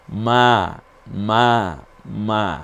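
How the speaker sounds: মা said three times, each clipped and separate; three ma in a row. Shown as a demonstration. Teacher showing how long the madd lasts. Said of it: "তিনটা মা যোগ করেন".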